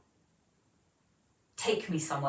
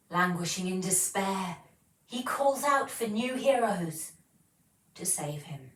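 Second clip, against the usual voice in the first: voiceover attempt. Shown as a demonstration. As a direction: read it like an epic fantasy trailer. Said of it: "that's my attempt at a voiceover".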